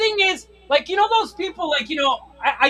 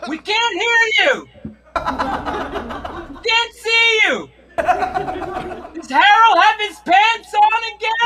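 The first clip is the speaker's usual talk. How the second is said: slow, laughing imitation of confused old folks; mock seniors' home chatter; 3 semitones higher, much slower than usual. Zoom call likened to a seniors' home, laughing mockery. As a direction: play a room of doddering seniors.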